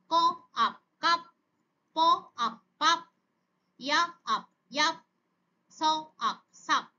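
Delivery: onset, rime, whole word, as in প... আপ... পাপ; phonics sound-out. Shown as a demonstration. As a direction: say ক, pause, আপ, pause, then blended কাপ. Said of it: "একসাথে উচ্চারণ করে". (থেমে থেমে ক, আপ, তারপর একসাথে কাপ)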